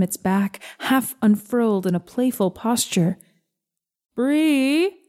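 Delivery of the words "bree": mild yell. A narrator's reading. Mama calling her child from the kitchen, mild yell. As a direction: call out lightly on a raised pitch. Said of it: "yells Mama from the kitchen".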